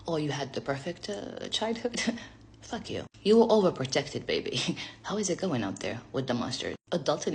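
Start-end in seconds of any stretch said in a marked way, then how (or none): 0.1-2.0 mocking commenter.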